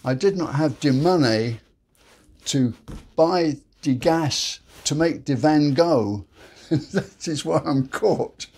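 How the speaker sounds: hammed-up French accent, breaking into a laugh. Caught robber excuses himself to police, French accent. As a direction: play up the French accent for the pun. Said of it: "Sorry for the French accent".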